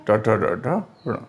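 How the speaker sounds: slow retroflex row with nasal "ण" at the end; "ण" as a separate retroflex n; careful pronunciation. Shown as a demonstration. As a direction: recite letter by letter, finishing on a short "ण". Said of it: "ऐसे करके आप बोलेंगे तो इसका उच्चारण".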